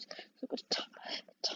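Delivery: words cut off by a hiccup. Real, not acted. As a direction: hiccup breaking the sentence. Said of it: "I've got hiccups".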